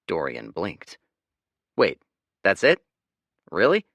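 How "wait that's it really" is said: surprised. Acted. Dorian surprised.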